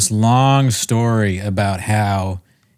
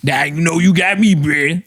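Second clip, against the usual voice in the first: stoned comic impression; 5 semitones higher than usual. Mimicking a stoner comedian's weed bit, slurred high-pitched blaccent. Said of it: "he looks like he's high".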